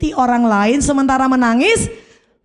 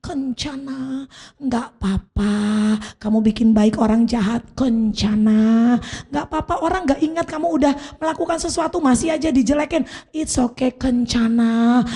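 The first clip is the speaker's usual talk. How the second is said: tender reassurance. Shown as a demonstration. Preacher modelling gentle comfort to a neighbour. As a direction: console the person beside you gently. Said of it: "bilang kanan kirimu".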